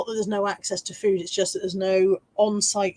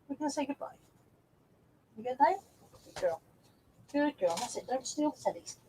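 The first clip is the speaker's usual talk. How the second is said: soft to the dog; 4 semitones higher, 11 dB quieter than usual. Real, not acted. Softly settling the dog.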